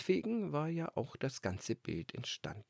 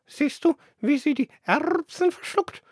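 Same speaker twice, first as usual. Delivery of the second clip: gossiping dove; 11 dB louder than usual. Acted. Dove gossips about the pouter pigeon, high cooing voice. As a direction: coo a catty remark like a dove.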